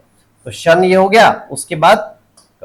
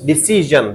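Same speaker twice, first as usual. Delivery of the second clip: डिसीजन with drawn-out middle "see" and falling end; stress on SI; slower than usual. Shown as a demonstration. Teacher asks how it is said, answers डिसीजन stressing "SEE". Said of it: "क्या बोलते हैं इसको?".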